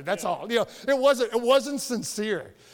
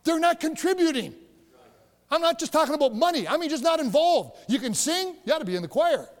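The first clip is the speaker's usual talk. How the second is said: preaching; 5 semitones higher than usual. Acted. Preaching at full force.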